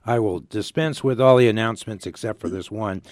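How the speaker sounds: hoarse, strained, nearly gone voice; losing voice. Real, not acted. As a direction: talk through a voice that's almost gone. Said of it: "'cause I have no voice".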